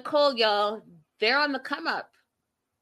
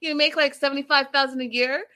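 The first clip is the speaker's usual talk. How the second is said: eager quote; 5 semitones higher, faster than usual. Retold or imitated. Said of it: "he's also like".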